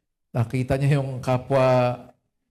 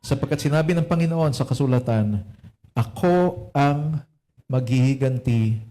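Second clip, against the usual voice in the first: measured, louder Bible reading to the church; scripture reading; 3 dB louder than usual. Acted. Pastor reading Romans to the congregation, solemn and deliberate. Reads Tagalog Bible version.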